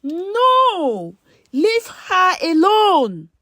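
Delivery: high desperate scream, held out slowly; a narrator's full scream of No, leave her alone. A narrator's reading. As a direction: scream it to stop the shot. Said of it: "Amara screamed from nowhere".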